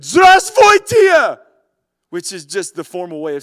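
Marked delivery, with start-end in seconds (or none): 0.0-1.4 full-throated shout of hello; shouted Russian greeting; loud yell. Retold or imitated. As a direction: yell it as loud as you can to wake the driver. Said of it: "I then yelled as loud as I could".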